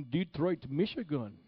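high, loud prophetic proclamation; Mahesh Chandra. Acted. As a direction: imitate a preacher announcing a city from on high. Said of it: "this is how he talked".

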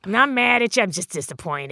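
a soft, let-down parent voice; disappointed parent. Pretend. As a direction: sigh it like a let-down dad. Mock disappointed parent line.

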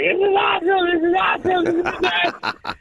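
high, shrieking with joy; excited screaming. Retold or imitated. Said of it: "She was screaming back".

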